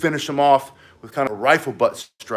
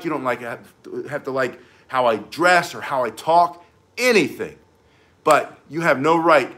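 indignation. Shown as a demonstration. Instructor shows students indignant self-defense voice. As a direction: stand your ground, how dare you. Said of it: "but indignation".

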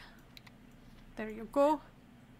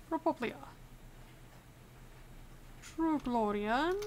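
hammed-up mock Arstotzkan accent; deliberately bad Arstotzkan accent; awful Arstotzkan accent. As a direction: play a border inspector with a put-on Arstotzkan accent. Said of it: "I cannot stop doing this awful Arstotzkan accent".

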